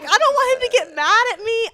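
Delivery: mock scared squeak. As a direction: play up the nervous thought in a tiny frightened voice. Nervous thought near angry boyfriend.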